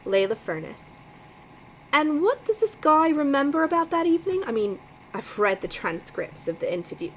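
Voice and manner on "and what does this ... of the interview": put-on first try at a Boston accent, pitched up; a struggling Boston accent; reading the line in a shaky Boston accent. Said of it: "my accent is really struggling to do this Boston accent".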